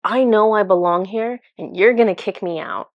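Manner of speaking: mildly bitter, defiant protest; recounting an indignant accusation; retold anger. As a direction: push back at her with understated anger. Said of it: "I was angry. I was like".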